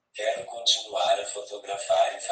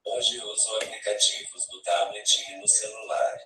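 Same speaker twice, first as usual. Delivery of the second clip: robotic text-to-speech voice from a tablet app; synthesized voice. Real, not acted. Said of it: "Com essa voz sintetizada que vocês estão ouvindo".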